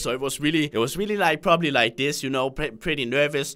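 low, hesitant, halting voice; nervous. Shown as a demonstration. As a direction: demonstrate a shy, nervous younger self. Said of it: "I was kinda nervous".

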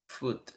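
"Foot" with a Spanish U vowel; pronounced with U. Shown as a demonstration. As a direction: say "Foot" like "fut", short and soft. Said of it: "Lo pronuncio como con una U".

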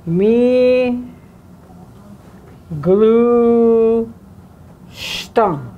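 "mi glu" lifted, "stan" with an SH sound; syllable stress demo. Shown as a demonstration. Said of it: "this is a H, S H sound".

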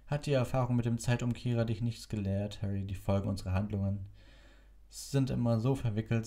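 lightly voiced wry old man; a hint of dry humour; amused old wizard. A narrator's reading. Dumbledore voiced in story.

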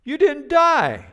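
high, drawn-out battle yell; hammed-up shouting across a make-believe shootout; play-acted yelling. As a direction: scream it like a kid playing cowboys. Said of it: "yelling, screaming".

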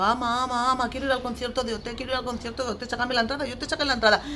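mimicked pleading child. Parent mimicking child begging for a concert ticket, pestering. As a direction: imitate a kid pestering on one high note.

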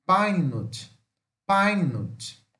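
"Pine nut" carefully, with a long "ai" in Pine; slow English model of "Pine nut"; pronunciation demo. Shown as a demonstration. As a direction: teach "Pine nut" as two clear words, falling. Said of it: "eles usam a palavra pine".

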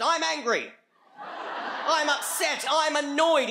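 high, loud mock scream, words stretched out; comic yelling, drawn out and high-pitched; screamed feelings. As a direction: bellow each feeling like a hammed-up announcement. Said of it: "we'll just hear this scream".

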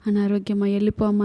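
understated imitation of polite begging; mock pleading. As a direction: lightly act out a meek request. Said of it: "అని బ్రతిమలాడితే". (కొంచెం బ్రతిమలాడుతున్నట్టు)

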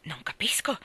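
blank, toneless bewilderment; expressionless. A narrator's reading. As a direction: say it without any expression. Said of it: "disse Anna priva di espressione". (tono vuoto, senza espressione)

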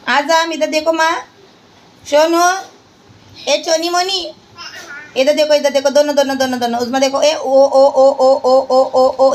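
mother cooing to get her son to look. Real, not acted. Cooing to baby for attention.

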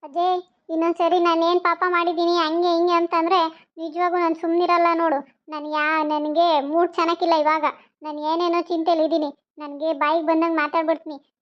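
irritated warning to back off; short-tempered. Acted. Woman warning old neighbour to leave, short-tempered. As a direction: scold them and send them away. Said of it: "ಅವಳು ಒಂದಿಟ್ಟು ಹಂಗೇನೆ short temper".

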